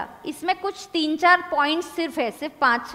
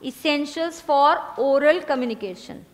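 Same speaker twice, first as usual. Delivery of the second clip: even slower, every word spaced; slower repeat dictation; much slower than usual. Shown as a demonstration. Teacher repeating heading, slower still. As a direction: repeat it slowly for the stragglers. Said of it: "लिखना".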